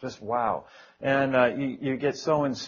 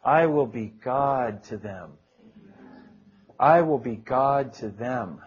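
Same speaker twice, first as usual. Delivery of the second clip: slow, lower prayerful repetition; prayer-reading; 3 semitones lower than usual. Acted. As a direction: pray the verse over slowly. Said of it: "begin to shake it with prayer".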